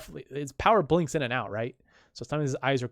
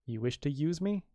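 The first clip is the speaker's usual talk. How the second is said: quiet question; 6 dB quieter than usual. Retold or imitated. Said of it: "son asks".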